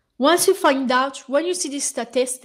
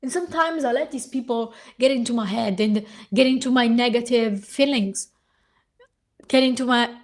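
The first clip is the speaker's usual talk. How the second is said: strained, hoarse voice; losing voice. Real, not acted. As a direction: voice giving out. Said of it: "see, I'm losing my voice".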